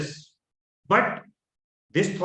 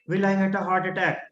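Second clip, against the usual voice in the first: fearful, shoulders down; faster than usual. Shown as a demonstration. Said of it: "there is a fear when I speak".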